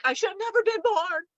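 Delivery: hammed-up wail of self-pity; mock despairing rant. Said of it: "starts going in this rant like".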